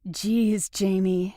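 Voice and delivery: a touch of a sneer, lightly voiced; understated scornful jab; mild sneer. Lucy to Jamie after his advice, mild sneer. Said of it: "she sneered".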